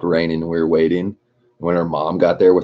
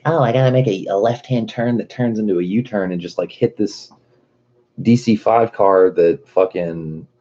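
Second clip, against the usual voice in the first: mocking ditzy driver; 3 semitones higher than usual.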